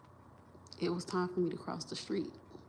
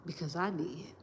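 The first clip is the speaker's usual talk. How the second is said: whispered punchline. Real, not acted. Whispered punchline of her lesson.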